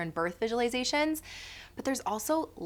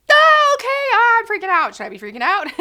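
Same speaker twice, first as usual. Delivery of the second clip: much higher, louder mock alarm that settles by the end; panicky kid; 13 semitones higher, 13 dB louder than usual. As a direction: voice a startled toddler catching the panic. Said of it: "the kid sees that and goes like".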